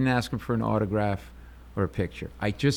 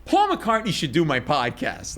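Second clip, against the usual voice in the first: blurted out; 4 semitones higher than usual. Retold or imitated. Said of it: "I blurt these words out".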